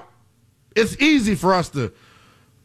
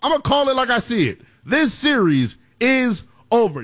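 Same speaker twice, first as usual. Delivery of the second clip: Doodle Bob impersonation; 4 semitones higher than usual. Pretend. Sports host doing a Doodle Bob bit on air. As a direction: growl it out like Doodle Bob claiming the sand. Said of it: "do my best Doodle Bob impersonation".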